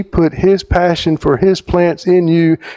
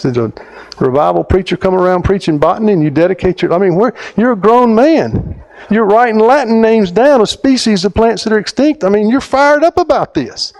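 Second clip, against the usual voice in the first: retelling his fired-up challenge to the biologist, climbing higher; building excitement; 7 semitones higher than usual. Retold or imitated. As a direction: pile on the questions, climbing in pitch. Retelling his own fired-up questioning.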